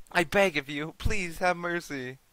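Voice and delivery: high-pitched begging for mercy; pleading mother. Acted. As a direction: beg desperately as the frightened mother. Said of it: "Mother begins to cry".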